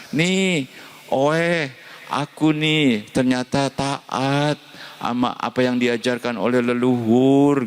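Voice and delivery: high, slow self-satisfied boast; lightly voiced proud follower; hammed-up proud boast. Friend boasting to ancestors.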